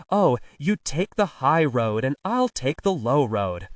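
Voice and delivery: lightly attempted famous-singer impersonation; impression of a Scottish singer. Porter proving his ear to Bill, singer impression. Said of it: "This is a famous singer".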